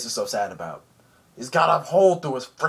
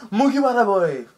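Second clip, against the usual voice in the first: loud, high hammed-up character holler; Ivankov; 9 semitones higher, 8 dB louder than usual. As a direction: holler it out in a put-on voice. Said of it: "he's like".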